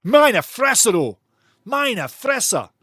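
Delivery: exaggerated German "Meine Fresse"; German exclamation. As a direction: mimic a German player's disbelief. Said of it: "The Germans say".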